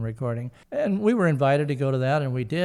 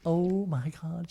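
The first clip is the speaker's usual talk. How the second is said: slow, softly awed gush; hushed mock fangirl swoon; imitating starstruck kid; 3 semitones higher, 5 dB quieter, slower than usual. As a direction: draw it out like an awed little kid. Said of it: "She was like a little teeny kid".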